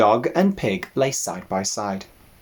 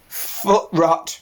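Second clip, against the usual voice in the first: put-on slow, high bleating old sheep; old ewe voice; 7 semitones higher than usual. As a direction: drawl it like a tired old ewe.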